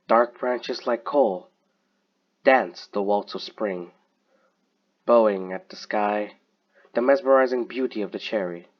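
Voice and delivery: measured poem reading, pausing after each line; poem recitation. Real, not acted. Reader presents a friend's poem Blossoms to listeners, measured recitation. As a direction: recite it line by line, letting each image stand.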